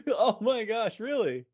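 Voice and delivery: amused disbelief. Real, not acted. Co-host learns how biopic is said, amused disbelief. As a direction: react as if you've just been enlightened. Astonished at the pronunciation.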